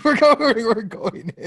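words squeezed out through laughter; high giggling delivery; laughing. Real, not acted. Laughing while retelling.

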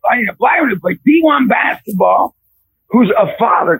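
fervent retold plea; loud pleading prayer. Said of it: "I literally prayed this prayer".

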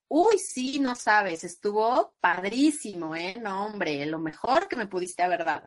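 exagerado entusiasmo burlón; sarcástica. Shown as a demonstration. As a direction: finge que le encantó el regalo. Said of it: "Pues está siendo sarcástica". (tono sarcástico de falso entusiasmo)

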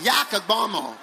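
playful American accent, broad "ah" in "Yakagbomo". Shown as a demonstration. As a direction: repeat "Yakagbomo" as a mock American. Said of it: "American accent".

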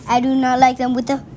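rattled off fast; rushing. Real, not acted. Child rushing through the book lines, fast rattle. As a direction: race through the list in one breath.

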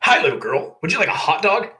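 high, loud, chirpy vendor voice; very cheerful vendor. A narrator's reading. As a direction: greet a customer with sing-out cheer. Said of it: "said in a cheerful voice".

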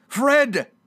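high, loud hail by name; sudden ringing call. Acted. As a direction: call the nephew from the doorway. Scrooge calls to his nephew.

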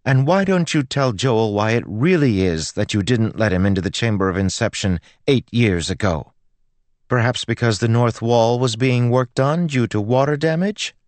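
put-on high, indignant girl; rising indignation. A narrator's reading. Girl confronts the priest as he turns away, indignant. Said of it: "voice rising as he turned away".

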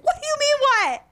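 high, incredulous squeal; exasperated disbelief. Retold or imitated. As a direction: ask it in shocked disbelief. Friend's exasperated quote.

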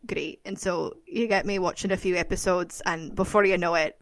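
low, soft Scottish accent. Shown as a demonstration. Fan of Outlander showing how she talks after episodes, Scottish accent. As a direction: talk in a lilting Scottish accent. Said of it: "that's a Scottish accent".

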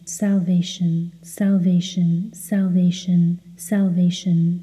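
steady, identical repetitions in an even tone; rhythmic mantra. Real, not acted. Meditation guide leading word-by-word repetition in rhythm, mantra voice. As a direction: repeat it like a metronome, unvarying.

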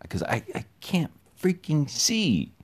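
hushed, breathy aside, slowed down; whisper. Real, not acted. Man whispers to the listener that he can't see. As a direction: whisper it like a confession.

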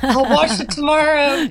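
loud, high, laughing mock promise; joking excuse. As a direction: call it out high through laughter. Joking as a sleepy film viewer.

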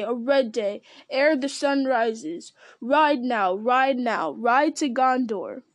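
loud, ringing battle cry; rally the riders at full voice. Acted. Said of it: "he cried in a loud voice".

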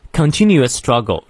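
"continuous struggle" with both words stressed; stressed content words. Shown as a demonstration. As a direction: give "continuous" and "struggle" full weight. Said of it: "重读". (“continuous struggle”两个词都重读)

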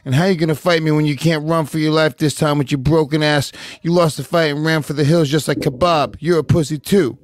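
lightly voiced trash-talking fighter; a hint of a fighter's taunting, reading tweets aloud; Nate Diaz. Co-host reads a tweet to a rival, lightly impersonated trash talk. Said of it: "you do a pretty good Nate Diaz impression".

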